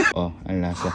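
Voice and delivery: low, quiet taster voice; deep taste voice. Pretend. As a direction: say it low and hushed. Tasting joke repeated.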